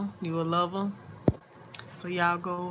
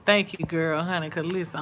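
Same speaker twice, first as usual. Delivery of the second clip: usual speaking voice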